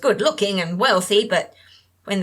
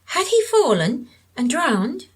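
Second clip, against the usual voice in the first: asked gently; 7 semitones higher than usual. A narrator's reading. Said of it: "Sandra asked gently".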